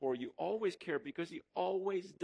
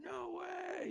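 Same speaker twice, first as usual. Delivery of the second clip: imitating a thrilled squeal, much higher; 4 dB quieter than usual. Preacher imitating the thrilled publishers on the phone, excited. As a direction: mimic their delighted disbelief.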